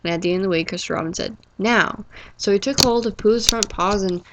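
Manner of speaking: cozy storybook reading voice, playing each character lightly; story narration. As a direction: read it gently to comfort a friend. Reads Winnie the Pooh aloud.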